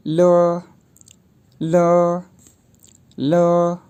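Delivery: ल said short with a neutral vowel; ल, light l and a quick vowel; ल like the Mandarin syllable le; pinyin le. Shown as a demonstration. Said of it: "तो यूँ pronounce किए जाएंगे".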